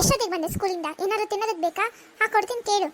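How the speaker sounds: irritated mother. Acted. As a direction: brush the daughter off. Mother voiced in skit. (ಸಿಡುಕಿನ ಅಮ್ಮ)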